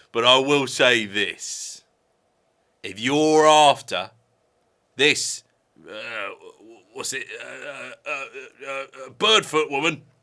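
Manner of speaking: put-on troll creature voice. Playing the troll who lives under the bridge, in a troll voice. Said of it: "I had a serious leech infestation under my bridge".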